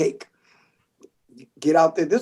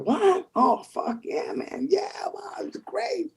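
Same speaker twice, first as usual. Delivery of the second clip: excited disbelief; 12 semitones higher, 8 dB quieter, slower than usual. Retold or imitated. Excited reply to job offer.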